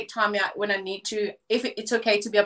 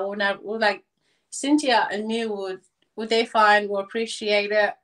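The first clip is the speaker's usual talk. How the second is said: Pidgin greeting. Shown as a demonstration. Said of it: "just go ahead and say something".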